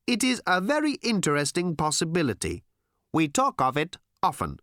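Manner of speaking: high odd alien voice. Acted. Aliens to Tricia, high odd voice. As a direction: muse on it like an alien.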